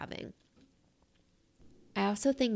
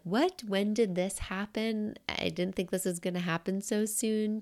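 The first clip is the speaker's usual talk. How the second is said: disbelief; 3 semitones higher than usual. Retold or imitated. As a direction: act out shock at finding the gray hair. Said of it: "I'm in disbelief".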